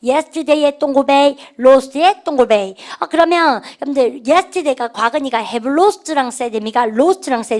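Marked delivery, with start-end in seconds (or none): 0.0-2.8 slow emphatic. Shown as a demonstration. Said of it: "우리 반 쌤 시킨 거".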